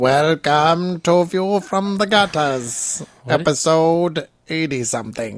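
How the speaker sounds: creepy horror-host voice. Opening the podcast episode as host: Crypt Keeper voice. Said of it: "It was definitely like a Crypt Keeper voice".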